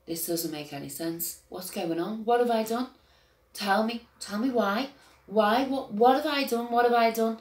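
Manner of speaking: starts hushed and confused, then rises into desperate pleading; bewildered pleading. Retold or imitated. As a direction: retell the panicked questions, from a murmur to begging. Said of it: "All you get out of me the whole time is".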